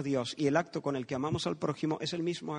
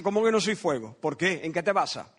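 mildly indignant, louder challenge; indignant fire; 3 dB louder than usual. Acted. The fire answers the man who doubts it, indignant. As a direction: protest as if affronted. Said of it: "El fuego indignado me dice".

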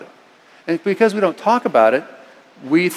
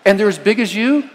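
alarmed wife; 5 semitones higher, 4 dB louder than usual. Retold or imitated. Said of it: "She said".

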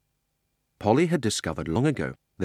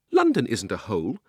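indignantly; 3 semitones higher, 5 dB louder than usual. Acted. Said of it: "said Polly indignantly".

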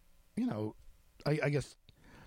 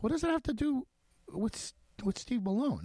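much higher, incredulous what-the-hell; exasperated disbelief; 11 semitones higher than usual. Retold or imitated. Reporter retelling his outburst at a friend, exasperated disbelief. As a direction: throw the question back, stunned. Repeating his baffled question.

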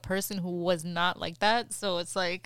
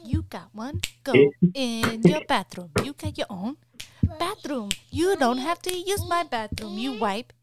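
exasperated parental scolding; 3 semitones higher, 4 dB louder than usual. Real, not acted. Mother sending child to own bathroom, exasperated scolding.

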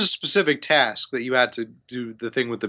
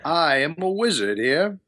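haughty wizard, indignant; slower than usual. Acted. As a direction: question trespassers with theatrical disdain. GM voices wizard Hamun Kost.

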